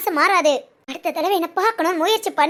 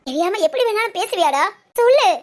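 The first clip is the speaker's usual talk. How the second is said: furious demand. Acted. Wife demanding her husband answer, furious. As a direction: snap it at him to force an answer.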